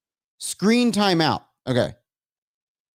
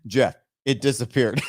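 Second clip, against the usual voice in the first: laughing dismay; 5 semitones lower than usual. Real, not acted. Streamer telling Jeff of lost stream, laughing. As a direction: lower voice cracking into a laugh.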